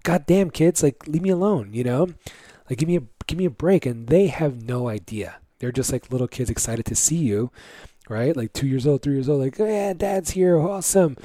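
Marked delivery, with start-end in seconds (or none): 0.0-3.9 exasperated. Retold or imitated. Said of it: "I'm just like". 9.6-11.2 mock-excited toddler greeting dad.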